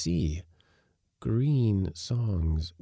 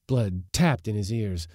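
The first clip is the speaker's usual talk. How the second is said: ordinary delivery, nothing marked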